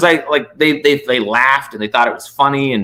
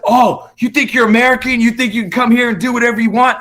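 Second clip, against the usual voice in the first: mocking hostile local; 10 semitones higher than usual. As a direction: imitate the local taunting the American. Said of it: "And he's just like".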